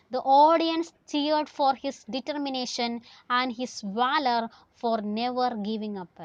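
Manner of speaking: slow, deliberate story reading; slow read-aloud. Acted. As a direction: stretch the phrases out for the class. Reads text aloud to class.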